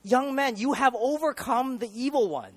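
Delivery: "have" punched high and loud; proud declaration. Retold or imitated. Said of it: "He doesn't say".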